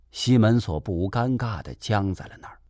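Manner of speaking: plain reading voice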